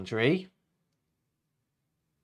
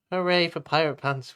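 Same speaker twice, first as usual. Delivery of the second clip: cheering; 4 semitones higher, 3 dB louder, faster than usual. Acted. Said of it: "we cheered".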